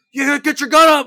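high, loud mock command; range-bully yelling. Range dude hurrying a stubborn shooter, imitated impatient yell. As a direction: yell over him like an impatient range guy. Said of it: "So the dudes will be like".

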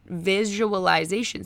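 visualization stretched slowly, ending on a rise; slow drawn-out repeat. Retold or imitated. Coach Drew calming rambling Adrian, slow drawn-out repeat. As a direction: draw out visualization soothingly, lifting at the end. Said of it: "And Drew was just like".

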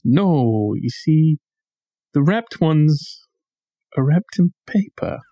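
lightly imitated slow talker, with pauses; a hint of a slow, patient explainer; slow-talking Don. Explaining the bread to Harry, slow and halting. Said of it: "he talks very slowly".

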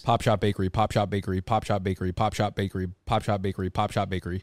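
steady, even repetition; tongue twister repeat. Shown as a demonstration. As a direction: rattle it off six times. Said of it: "Say that six times".

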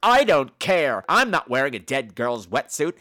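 slow, drawn-out refusal; hammed-up petulant complaint; mock stubborn whining. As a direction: imitate a woman digging her heels in. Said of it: "listen to this woman bitch".

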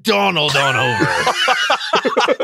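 slow drawn-out shout; calling out. Pretend. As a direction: call across the field. Calling out Red Rover chant.

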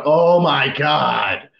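slow, drawn-out exasperated sigh of words; exasperated groan. Retold or imitated. Fed up with rambling board members, slow exasperated groan. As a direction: drag it out like you're sick of them. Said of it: "And I'll just go out loud".

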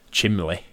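"Chimley" with an l where the n should be; imitating brother. Mocking his brother's childhood word. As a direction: say "Chimley", m then l, no n. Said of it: "My brother used to say".

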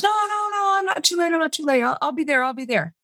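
put-on high, pleading drunk voice that slides back down; mock drunk protest starting very high; drunk husband. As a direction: mimic a tipsy husband begging off.

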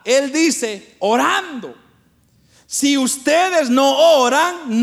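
emphatic preaching. Real, not acted. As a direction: exhort the congregation, drawing the words out. Predica a la congregación. (predicación enfática, en tono elevado)

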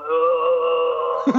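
drawn-out mock "ugh"; imitated queasy groan. Imitating the queasy man in front, mock groan. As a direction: groan like someone about to be sick. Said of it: "rubbing his head, like, going".

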